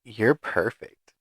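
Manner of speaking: slow, trailing creepy compliment; creepy cashier voice. Retold or imitated. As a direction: drag it out like an unsettling stranger.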